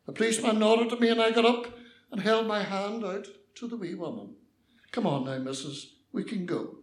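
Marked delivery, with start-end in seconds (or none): 4.9-6.8 lower, calm, reassuring invitation; gentle coaxing. Acted. Young man helping old lady up afterwards, gently coaxing.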